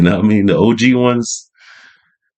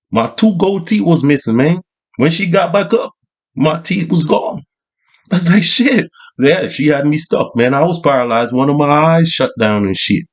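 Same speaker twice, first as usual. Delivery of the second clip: street OG voice; 3 semitones higher than usual. Retold or imitated. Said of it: "It's like".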